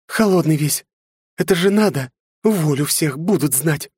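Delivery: tearful scolding mother; being shaken. A narrator's reading. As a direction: scold through tears. (взволнованная мать)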